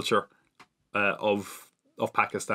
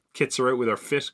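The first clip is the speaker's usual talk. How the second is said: put-on old man slang; 4 semitones higher than usual. Shown as a demonstration. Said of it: "my old man slang".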